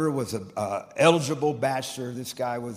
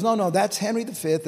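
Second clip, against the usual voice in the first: higher, louder emphatic quote; insistent correction; 8 semitones higher, 5 dB louder than usual. Retold or imitated. Friend corrects the preacher on his quote, emphatic insistence. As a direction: correct him firmly, pitch and volume raised.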